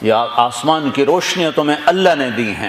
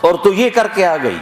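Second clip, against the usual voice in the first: mild mock taunt; 4 semitones higher than usual. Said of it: "تانا دے رہے ہیں".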